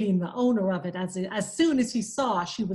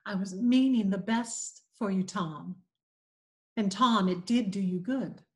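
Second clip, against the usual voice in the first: gently; 2 semitones lower than usual. Acted. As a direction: soothe him like a remorseful aunt. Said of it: "said gently".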